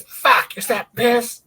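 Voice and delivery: mock his shocked yelp; imitating the drummer. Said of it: "I know him. It's".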